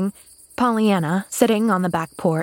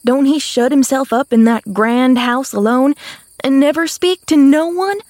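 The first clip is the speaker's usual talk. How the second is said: higher, emphatic dialect Nancy, storytelling; eager country maid; 6 semitones higher, 5 dB louder than usual. A narrator's reading. Maid telling the girl of the romance, eager. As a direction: build the case with relish.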